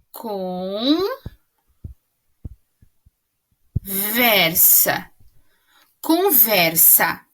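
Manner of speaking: conversa broken into slow syllables, con-ver-sa. Shown as a demonstration. Teacher splitting conversa into syllables for pupils. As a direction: sound out conversa slowly for the class. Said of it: "nós temos aqui".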